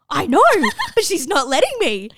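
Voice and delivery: high, loud complaint broken by laughter; mock exasperated wail. Learner tells instructor she's being refused, mock exasperated wail. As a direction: wail it helplessly, hammed-up and half laughing.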